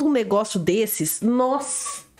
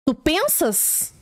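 mock drawl; 3 semitones higher, much slower than usual. Mocking quote of the mother.

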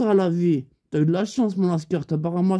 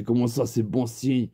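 low, sceptical repeated question; doubtful echo; 8 semitones lower than usual. Retold or imitated. Teller doubting his friend's good omen, low puzzled echo. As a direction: drop the pitch and query it.

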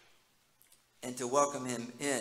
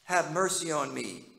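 calling out; 4 dB louder than usual. Retold or imitated. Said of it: "So he calls out".

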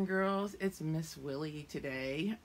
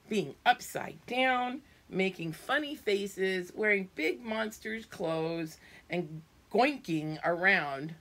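silly monster; 3 semitones higher, 6 dB louder, slower than usual. Acted. Purple monster's silly lines.

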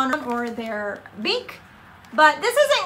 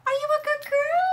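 much higher, quick cooing pet voice; 10 semitones higher, faster than usual. Real, not acted. Baby talk to her parrot.

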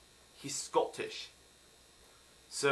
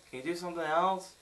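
usual speaking voice

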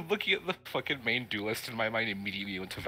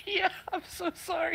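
much higher, slow, laughing through it; laughing apology; 5 dB louder, slower than usual. Real, not acted. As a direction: giggle out the apology.

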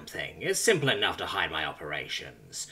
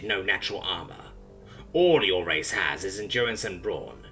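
ranting. Acted. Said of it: "it rants".

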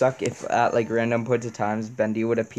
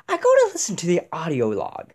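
louder, higher mimicry of a fellow gamer; lightly put-on imitation, pitched up and punchy; Jack impression; 4 semitones higher, 4 dB louder than usual. Gamer redoing his audio log line as Jack, lightly mimicked. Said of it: "I'm gonna do this in Jack's voice".

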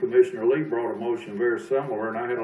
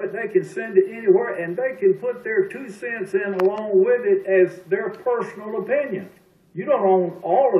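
higher-pitched, heated insistence; real argument, pitched up and emphatic; insistent rebuttal; 6 semitones higher, 3 dB louder than usual. Real, not acted. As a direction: push the point across after being cut off. Heated argument after being interrupted.

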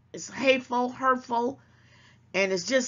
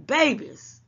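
exclaiming; 6 semitones higher, 5 dB louder than usual. Real, not acted. Exclaims to viewers, drawn out.

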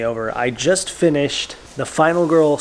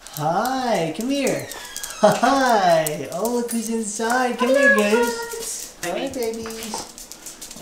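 talking to a dog; 9 semitones higher, much slower than usual. Real, not acted. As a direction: coo at the dogs. Greeting the dogs.

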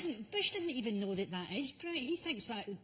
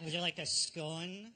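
slow, leering offer with a laugh; slow suggestive come-on; creepy; 4 semitones lower than usual. Shown as a demonstration. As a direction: make an innocent question sound creepy. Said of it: "Everything's quite creepy when you say it like that".

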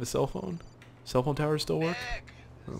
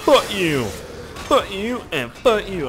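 taunting yell; 9 semitones higher, 5 dB louder, slower than usual. Real, not acted. Taunting zombies.

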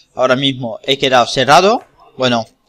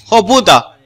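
startled swear; 6 semitones higher, 5 dB louder than usual. Real, not acted. Startled by something in game.

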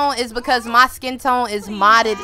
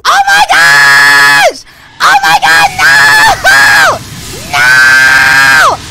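panicked shout; 10 dB louder, much slower than usual. Real, not acted. Fire started in game.

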